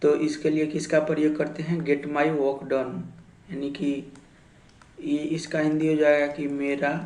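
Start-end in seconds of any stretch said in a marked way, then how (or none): 1.8-3.0 slow model sentence. Shown as a demonstration. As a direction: spell it out slowly for the class. Teacher models English sentence. (धीरे-धीरे, हर शब्द अलग)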